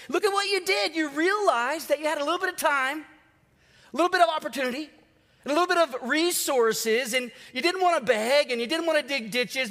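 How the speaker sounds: a parent who can't keep a straight face; amused scolding. Acted. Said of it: "you're trying not to laugh, but you're scolding them".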